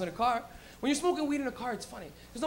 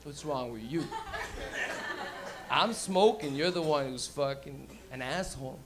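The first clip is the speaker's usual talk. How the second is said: put-on stoned kid; 8 semitones lower, 5 dB quieter, slower than usual. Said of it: "He's like".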